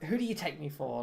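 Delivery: attempted German accent; mild German accent on an indignant merchant. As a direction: try a light German accent. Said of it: "he says in a German accent".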